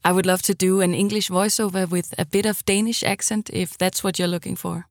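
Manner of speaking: English with a light Danish accent; Danish-accented English, friendly and plain. Shown as a demonstration. Voice actor pitching her Danish-accented English. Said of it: "my Danglish could sound a bit like this".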